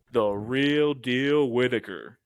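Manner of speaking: slow, drawn-out ring announcer. Acted. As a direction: draw it out like a boxing announcer. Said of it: "we have to say it like an announcer".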